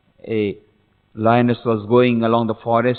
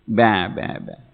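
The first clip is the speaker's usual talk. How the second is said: bleating sheep; 4 semitones lower, 4 dB quieter than usual. Acted. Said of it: "The small lion said".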